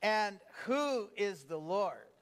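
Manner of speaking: slow, deliberate read with "who" drawn out; read like you mean it. Shown as a demonstration. Preacher leading the congregation in Pharaoh's line, meaningful slow reading. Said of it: "read it like you mean it".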